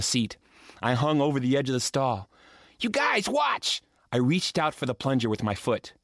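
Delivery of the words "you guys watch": high, insistent calling; eager call to friends. Acted. Boy urging friends to watch, high and eager. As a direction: rope them in for one more.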